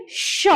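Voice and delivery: "श" with a long hush from the palate; palatal sh. Shown as a demonstration. Teacher showing students the palatal sound, long "श". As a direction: draw out "श" as a palatal sh. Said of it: "उच्चारण कैसे करेंगे".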